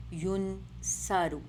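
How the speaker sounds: یون سارو slowly as "yun-SAA-ru"; یون سارو in two slow, separate parts; "oo" then "aa". Shown as a demonstration. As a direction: stretch the aa in سارو. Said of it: "نا، نا، نا sound آئے گی".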